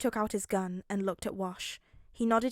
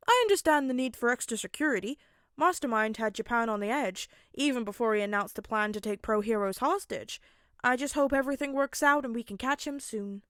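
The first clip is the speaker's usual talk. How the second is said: a louder, brisk hero's voice; Wash's voice; 4 dB louder than usual. Acted. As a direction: reassure the detective, upbeat and understanding.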